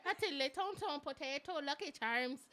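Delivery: hammed-up, dubious Irish accent; joking stab at sounding Irish. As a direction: fake an Irish accent with silly stock phrases. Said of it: "that sounded like it was Irish".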